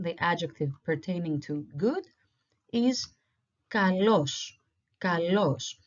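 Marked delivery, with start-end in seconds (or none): 3.7-5.7 "kalos" with stress on the o; Greek pronunciation demo. Shown as a demonstration. Teacher giving learners the opposite word, careful Greek pronunciation. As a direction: model "kalos" clearly as ka-LOS. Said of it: "The spelling is exactly the same".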